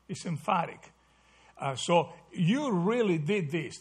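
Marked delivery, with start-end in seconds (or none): 2.3-3.8 "you" given emphasis; stress on YOU. Shown as a demonstration. Teacher explaining the emphatic word to the class, stress on "you". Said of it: "the word you there is emphatic".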